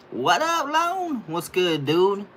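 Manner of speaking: loud, very high-pitched hello; hyped greeting. Real, not acted. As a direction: call out high and loud to a friend arriving. Calling out greeting to newcomer.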